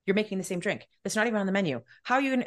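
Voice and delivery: mildly indignant retold complaint; a touch of exasperated disbelief; upset protest. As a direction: argue the point in mock outrage. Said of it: "I was so upset that they raised their prices".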